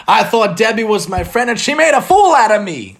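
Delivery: upset blurt. Acted. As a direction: blurt it out, hurt. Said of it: "Leah blurted out".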